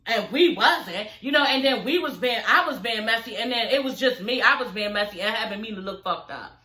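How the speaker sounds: lightly voiced Duffy, confronting Jackie but only a hint of acting; voicing Duffy. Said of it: "I would have told her right then and there if I was Duffy".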